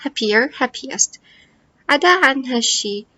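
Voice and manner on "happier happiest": happier، happiest drawn out slowly for the class; slow model words. Shown as a demonstration. Teacher modelling comparative forms, slowly. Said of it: "نفس الشيء happy".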